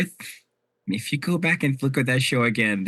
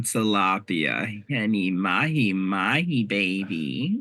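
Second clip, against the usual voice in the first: sassy drag queen; 2 semitones lower, much slower than usual. Pretend. Drawn-out sassy fish names.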